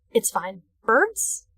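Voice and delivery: ordinary talk, nothing marked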